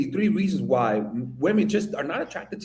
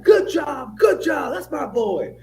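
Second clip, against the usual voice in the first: higher, louder mock cheering breaking into a laugh; imitating proud stepdad; 11 semitones higher, 4 dB louder, slower than usual. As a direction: shout praise like a delighted stepdad. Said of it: "He was like".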